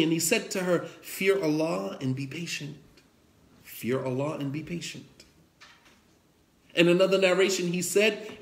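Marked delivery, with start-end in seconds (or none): 1.0-5.2 low, hushed, voiced counsel; retold whisper, kept tender and quiet; gentle murmur. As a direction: imitate a soft word in a mourner's ear. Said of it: "He whispered in her, behind her, real gently".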